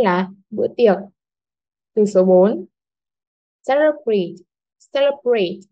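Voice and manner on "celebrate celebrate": "celebrate" starting high on a strong "ce"; stress on first syllable. Shown as a demonstration. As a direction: punch "ce" in "celebrate", falling through the rest. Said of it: "Trọng âm rơi vào âm tiết thứ nhất". (nhấn cao âm đầu "ce" trong "celebrate")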